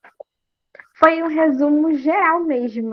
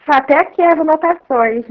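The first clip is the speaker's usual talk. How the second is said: choppy breaking-up call audio; words dropping out on a bad connection; corrupted audio; 6 dB louder than usual. Real, not acted. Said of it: "É, tá falhando".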